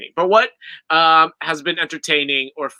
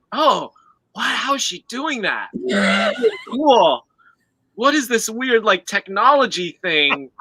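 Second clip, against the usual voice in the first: mock amazed viewer; 5 semitones higher than usual. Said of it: "I'd be like".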